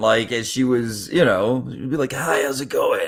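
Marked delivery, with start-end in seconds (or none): 2.1-3.1 spoken with the voice gone, barely voiced. Speaker imitates how an actress sounded at the end of her life, voice gone. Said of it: "her voice was gone".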